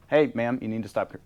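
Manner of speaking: loud, firm phone warning; stern warning. Retold or imitated. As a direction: tell the caller off, loudly. Telling off a cursing caller.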